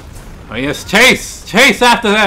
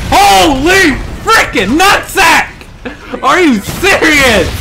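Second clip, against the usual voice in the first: outraged disbelief; 4 semitones higher, much slower than usual. Real, not acted. Outraged by enemy play.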